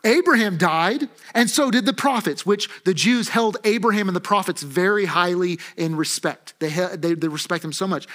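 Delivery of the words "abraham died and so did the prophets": acted exclamation of accusers; mildly raised, emphatic challenge; exclaimed accusation. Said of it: "at this they exclaimed".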